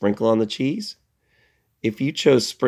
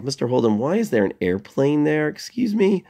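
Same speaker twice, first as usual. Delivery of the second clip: imitating a puzzled student; 4 semitones higher than usual. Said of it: "You might be asking yourself".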